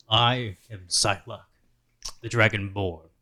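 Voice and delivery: slow, booming dragonborn; dragon voice. Acted. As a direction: growl it out like a dragon. Player voices Dragonborn character intro.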